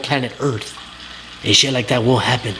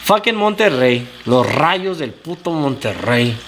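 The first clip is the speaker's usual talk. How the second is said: angry rant; slower than usual. Real, not acted. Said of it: "I'ma go on another fucking rant now".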